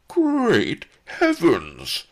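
high, loud, slow outraged cry; yelling. A narrator's reading. The governor yells from the window, discovering the rope. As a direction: bellow it in shock. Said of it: "the lout yelled above us".

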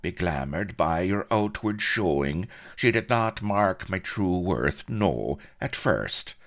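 smug, lilting self-praise; complacent boasting. A narrator's reading. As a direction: preen through the list of gallant deeds. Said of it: "whispered the Colonel complacently".

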